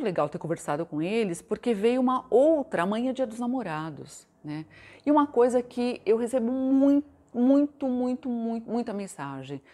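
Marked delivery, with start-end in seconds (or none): 5.1-8.7 each "muito" hit higher and louder; emphatic muito. Real, not acted. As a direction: pile up "muito" with growing insistence.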